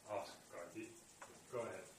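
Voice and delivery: quiet, unhurried invitation; calm. Acted. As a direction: calmly let her go ahead, no pressure. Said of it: "very calmly".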